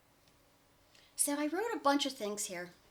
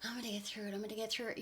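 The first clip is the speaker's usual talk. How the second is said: quiet self-talk; 2 semitones lower, 6 dB quieter, much faster than usual. Shown as a demonstration.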